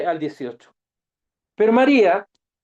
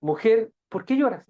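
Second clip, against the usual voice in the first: gentle question; 2 semitones higher than usual. Shown as a demonstration. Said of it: "La misma pregunta".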